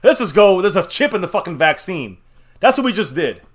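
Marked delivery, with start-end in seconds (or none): 0.0-2.2 mock reckless fan. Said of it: "we say".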